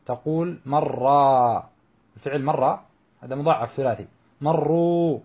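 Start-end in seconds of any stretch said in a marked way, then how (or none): 0.7-1.6 مرة with one held, doubled r and long final vowel; merged double r. Shown as a demonstration. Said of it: "وجب إدغامه". 4.4-5.2 مروا with one held, doubled r and long oo; merged double r. Shown as a demonstration. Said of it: "وجب إدغامه".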